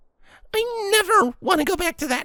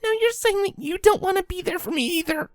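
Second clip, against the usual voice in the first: near tears, accusing; filly on the verge of sobbing; trembling, hurt filly. Acted. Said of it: "began to tremble".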